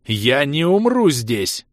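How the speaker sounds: slow, loud defiance; defiant yell. Acted. Ros yells back at Mirta defiantly. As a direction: shout it back at her. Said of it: "заорал я в ответ".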